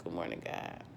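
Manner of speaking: sleepy murmur, barely voiced; groggy. Real, not acted. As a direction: mumble it half asleep. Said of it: "See how I groggy I am?".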